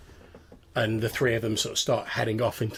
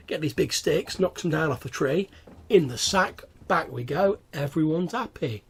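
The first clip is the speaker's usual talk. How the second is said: lightly voiced goblin, a little raised; chatty goblin schemer; 4 semitones higher than usual. Goblin explaining a sneaky fruit-picking trip to a squire, chatty.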